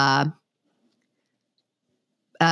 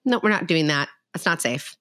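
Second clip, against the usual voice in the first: very calm; 3 semitones higher, faster than usual. Shown as a demonstration. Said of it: "to very calmly say".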